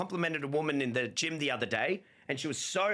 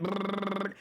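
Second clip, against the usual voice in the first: thinking buzz; 5 semitones higher than usual. Retold or imitated. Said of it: "I shut my eyes and I went".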